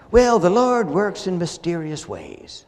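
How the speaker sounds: mocking pious platitude; sarcastic. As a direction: say it with a sneer. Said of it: "you notice the sarcastic way in which I say that".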